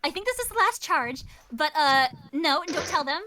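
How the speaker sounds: put-on chatty, a bit secretive kid; teen girl voice. Kiri confides she is hiding, chatty teen girl. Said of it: "the first thing she says is like".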